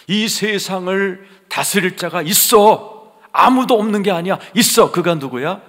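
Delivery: high, loud emphatic proclamation; full-force preaching. Real, not acted. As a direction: shout assurance to the congregation. (확신에 찬 큰 소리의 설교)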